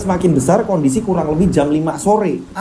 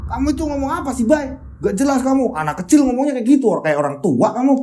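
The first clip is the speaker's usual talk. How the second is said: put-on higher, puzzled boy's voice; a higher voice, confused and worried; suara Anggit bingung; 8 semitones higher than usual. Anggit's voice in the story. (suara anak bingung dan cemas, lebih tinggi)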